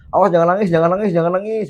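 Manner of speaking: high-pitched retold cheering cry; imitated crowd yelling. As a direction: imitate excited fans calling out, without full force. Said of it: "bahkan ada yang teriak-teriak".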